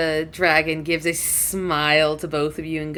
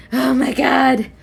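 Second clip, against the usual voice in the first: slow, higher-pitched acted exclamation; mild dismayed exclamation; 6 semitones higher, 3 dB louder, slower than usual. Lilith lands among them, mildly dismayed. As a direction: draw it out in understated dismay.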